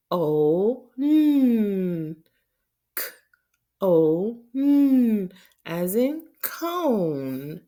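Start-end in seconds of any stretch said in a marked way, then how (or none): 2.9-5.3 letters called out, last one high and loud; loud spelling. Shown as a demonstration. Teacher spelling "cone" for kids, calling out. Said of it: "Do it with me".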